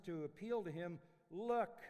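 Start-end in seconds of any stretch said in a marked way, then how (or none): 1.3-1.8 curt, loud, higher Look full of scorn; disdainful look. Retold or imitated. Older son to pleading father, scornful and louder. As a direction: throw it at him like at a stranger. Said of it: "complete disdain and disrespect".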